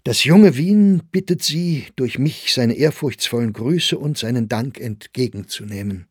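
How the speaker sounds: put-on a young man offering formal thanks with ceremony; solemn tone. Young admirer formally greets the old poet, solemn and ceremonious. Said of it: "sagte er in feierlichem Tone".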